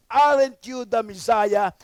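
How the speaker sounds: the thief on the cross mocking Jesus, slow and taunting; mocking criminal. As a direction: draw it out like a jeering thief. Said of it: "hurled insults at Jesus".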